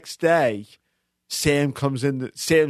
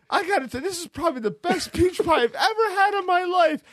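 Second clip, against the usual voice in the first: gloating pie eater. Retold or imitated. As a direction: savour every word to rub it in. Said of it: "he's going like this".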